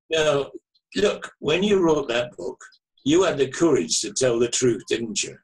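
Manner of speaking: lightly imitated Manchester caller; Mancunian accent. Caller pressing the author about the book, in a Manchester accent. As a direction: challenge with a hint of Mancunian. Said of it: "very distinctive Manchester, Mancunian, uh, accent".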